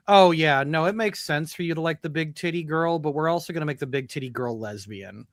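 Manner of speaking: sarcastic, patronizing explanation; mock condescending studio voice; mocking the writers. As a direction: talk down to the fans like a smug writer. Mocking game writers' attitude.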